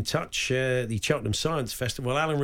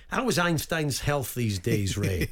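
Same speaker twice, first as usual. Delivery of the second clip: imitating Alan; slower than usual. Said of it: "Alan saying to Ray".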